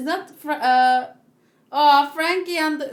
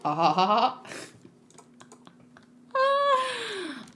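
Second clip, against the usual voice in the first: failed laugh; 6 semitones higher, much slower than usual. Shown as a demonstration. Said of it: "I can't do him".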